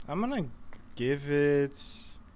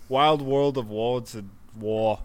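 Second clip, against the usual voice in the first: put-on Austrian accent; 2 semitones lower, slower than usual. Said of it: "in your Austrian accent".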